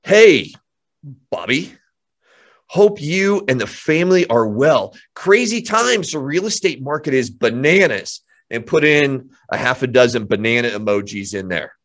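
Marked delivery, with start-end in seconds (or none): 0.0-8.2 upbeat friendly text script. Shown as a demonstration. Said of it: "here's what you're gonna put in there".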